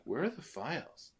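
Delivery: hushed, whispered imitation of a film line; whispered movie quote. Host quoting a favorite stupidly funny scene, whispered.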